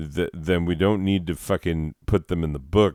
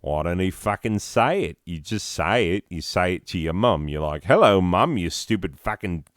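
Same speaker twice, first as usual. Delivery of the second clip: lightly put-on Australian voice; mock Australian accent, chatty and blunt. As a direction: imitate an Australian casually cussing. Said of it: "Australians, if they heard this, they'd be like".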